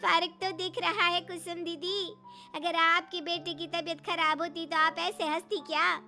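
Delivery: high, loud indignant challenge; offended rebuke. Acted. Offended sister rebukes laughing Kusum.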